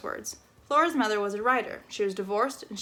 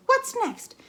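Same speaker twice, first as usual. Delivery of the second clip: exasperated; 4 dB louder than usual. Acted. Exasperated neighbor.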